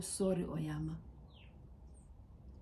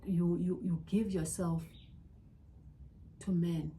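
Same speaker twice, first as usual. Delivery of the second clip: tearful apology. Real, not acted. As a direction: apologise gently as if holding back tears. Tearful apology to herself, daughters.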